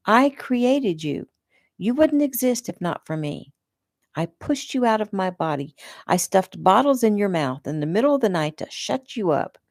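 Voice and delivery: lightly voiced mother claiming her daughter; mother ranting at her grown daughter, lightly voiced; possessive mother. Mother figure ranting in dialogue.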